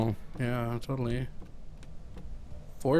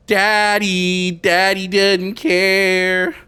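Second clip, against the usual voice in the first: creepy ghost voice; 9 semitones higher, 10 dB louder, much slower than usual. Pretend. Voicing the creepy game voice.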